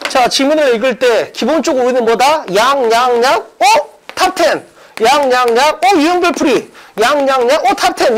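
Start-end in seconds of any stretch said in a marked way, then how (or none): 2.5-8.2 skim 양, 양, 양, then pop up on 어 and 탑 텐; reading demo with stress. Shown as a demonstration. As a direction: read 양 as filler, hit 어 and 탑 텐. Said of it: "이렇게만 읽으면 된다고".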